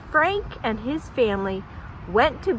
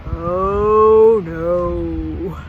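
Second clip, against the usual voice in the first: mock dismay; 5 semitones lower, 4 dB louder than usual. Narrator voices goats' dismay.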